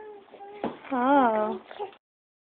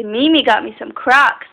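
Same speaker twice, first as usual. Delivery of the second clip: slow prompt; 4 semitones lower than usual. Shown as a demonstration.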